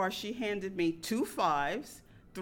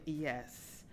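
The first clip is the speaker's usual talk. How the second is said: calm reply; 6 semitones lower, 8 dB quieter than usual. Retold or imitated. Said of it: "I calmly replied".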